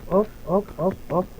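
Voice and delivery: urgent. Real, not acted. Scrambling up mid-fall.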